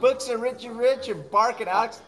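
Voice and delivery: put-on heavy British accent reading off names; a British accent so thick it is hard to follow; British stranger listing the co-hosts. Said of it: "that accent was so thick".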